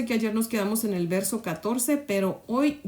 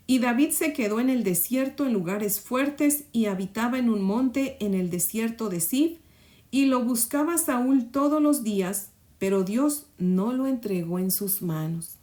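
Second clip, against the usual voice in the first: scripture reading; 2 semitones higher than usual. Acted. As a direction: proclaim the verse to the listeners. Reads the Bible verse aloud.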